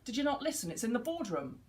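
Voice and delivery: mock impatient colleague; critical parent. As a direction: scold them for not listening. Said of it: "So even if this person's going".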